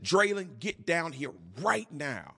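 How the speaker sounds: a father calling his son down with force, half joking; forceful yell. Retold or imitated. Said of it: "with force".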